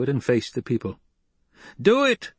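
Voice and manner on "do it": high, loud shriek from the crowd. Acted. Crowd member urging Paul on, shrieking high and loud. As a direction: scream it out from the back. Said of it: "someone shrieked".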